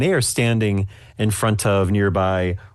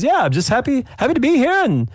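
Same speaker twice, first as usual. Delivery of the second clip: high eager voice. Acted. Voices cameraman Buck.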